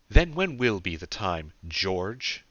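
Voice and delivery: loud, angry demand. A narrator's reading. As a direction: demand an answer from him, hard. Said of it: "she demanded".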